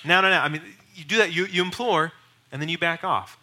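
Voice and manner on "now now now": mock insistent pushing. Shown as a demonstration. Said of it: "Don't press for a response".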